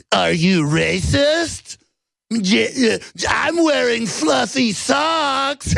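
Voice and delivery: rising from high to a very high slow shout; mock whiny exec. Mocking tech elites deflecting, high slow shrieking. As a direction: squeal the excuse in outrage.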